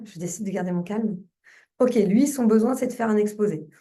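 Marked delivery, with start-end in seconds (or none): 0.0-1.2 composed, slightly lowered affirmation; calmly resolve to keep your composure; calming self-talk. Shown as a demonstration. Coach models her tapping phrase, calming self-talk.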